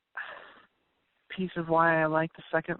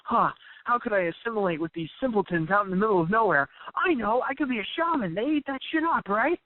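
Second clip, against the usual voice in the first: rising higher, sly inner plotting; lightly voiced con man, climbing higher; scheming con man; 5 semitones higher than usual. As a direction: muse like a grifter hatching a plan. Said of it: "he's like".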